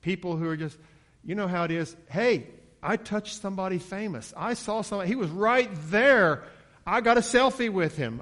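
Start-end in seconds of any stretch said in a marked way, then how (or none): 2.1-8.2 high, excited fan voice; animated boasting, pitched up; starstruck bragging. Acted. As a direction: gush about a celebrity encounter. Acting fans bragging about touching someone famous.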